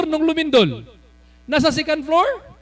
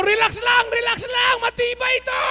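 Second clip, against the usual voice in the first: higher mock yell of reassurance; retold shout; 10 semitones higher than usual. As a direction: call out to calm the crowd. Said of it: "Sigaw ako ng sigaw". (pasigaw na pagpapakalma)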